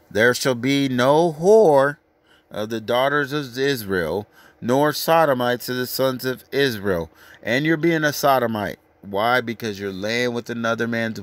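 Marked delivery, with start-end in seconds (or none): 0.1-7.1 slow, emphatic verse reading; scripture reading. Acted. Preacher reading the verse to the crowd, slowly.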